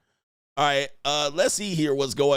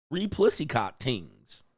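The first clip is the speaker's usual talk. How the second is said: mock Jamaican accent; 3 semitones lower, slower than usual. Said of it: "Man, I gotta speak like this".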